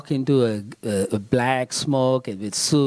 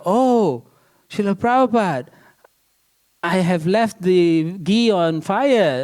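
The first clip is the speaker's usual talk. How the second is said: higher, louder, a startled gasp of realization; alarmed exclamation; 4 semitones higher, 3 dB louder, slower than usual. Retold or imitated. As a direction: blurt it out in dismay, then slow down. Yamuna realizes the ghee burning.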